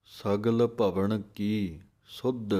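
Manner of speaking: slow, with short breaks between ਸਗਲ ਭਵਨ and ਕੀ ਸੁਧ; dash ਦੇ ਕੇ; pause marks. Shown as a demonstration. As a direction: separate each phrase deliberately. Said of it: "ਇਸ ਤਰ੍ਹਾਂ dash ਦੇ ਕੇ ਬੋਲਣਾ ਹੈ।".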